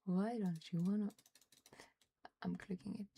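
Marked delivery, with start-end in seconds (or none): 2.4-3.2 muttered whisper. Real, not acted. Whispering while clicking.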